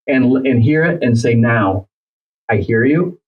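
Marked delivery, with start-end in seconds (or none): 1.3-3.2 calm, measured listening voice; composed and even. Shown as a demonstration. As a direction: check back evenly without reacting. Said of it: "All in a calm voice".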